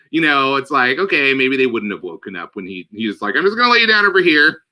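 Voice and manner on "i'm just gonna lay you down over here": mock gentle whisperer. Voicing the gentle servant.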